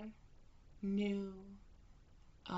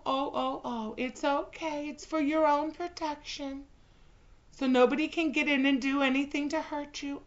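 higher, fast cooing reassurance; mock soothing; 5 semitones higher, 4 dB louder than usual. Bride soothing her caged pet, mock cooing. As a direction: coo to calm a whining dog.

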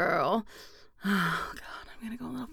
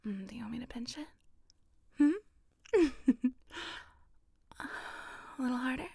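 intimate whisper. Acted. Whispering close to a partner, intimate and teasing. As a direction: breathe every word like a secret to a lover.

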